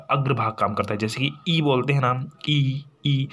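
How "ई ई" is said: ई said with tongue pushed forward; a clear drawn ई; front vowel ee. Shown as a demonstration. Teacher demonstrating ई to students. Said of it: "जीभ सामने की तरफ निकल जाता है".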